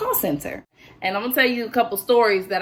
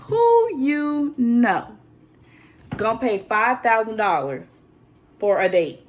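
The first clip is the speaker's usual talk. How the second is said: slow, louder disbelieving question; incredulous; 5 dB louder, slower than usual. Real, not acted. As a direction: drag it out in disbelief. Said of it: "disbelief at buyers".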